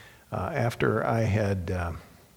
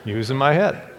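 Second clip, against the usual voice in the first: laughing; 2 semitones higher, 5 dB louder than usual. Real, not acted. Punchline joke.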